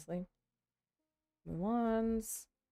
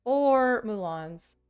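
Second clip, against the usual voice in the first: slow counting; 4 semitones higher, 5 dB louder, much slower than usual. Real, not acted. Counting the cards out slowly.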